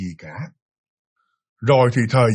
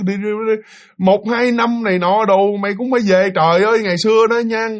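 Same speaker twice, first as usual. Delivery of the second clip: higher, raised, fretting voice; upset scolding mother; 5 semitones higher than usual. Retold or imitated. Mother scolding her son for leaving home, upset raised voice. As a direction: press him like a worried, angry mother.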